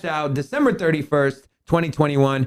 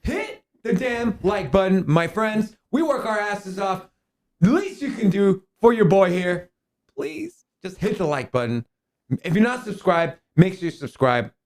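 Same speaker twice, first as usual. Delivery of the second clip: hyped host; 4 semitones higher than usual. Acted. Host hypes chat for likes.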